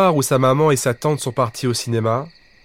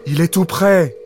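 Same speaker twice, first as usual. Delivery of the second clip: un peu plus fort, voix qui monte; élevant la voix; 4 semitones higher, 4 dB louder than usual. Acted. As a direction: monte la voix pour faire peur au cousin. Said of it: "dit-il en élevant la voix". (voix élevée pour effrayer, sans crier)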